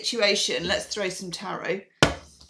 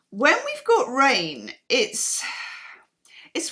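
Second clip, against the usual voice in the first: whisper; 4 semitones higher, slower than usual. Real, not acted. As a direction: drop to a secret whisper. Sudden whisper.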